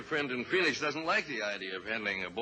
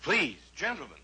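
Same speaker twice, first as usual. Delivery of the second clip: higher and louder, pleading for calm; alarmed plea; 6 semitones higher, 5 dB louder than usual. Acted. Lawyer begs the two men to stop, alarmed. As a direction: jump in to stop the fight.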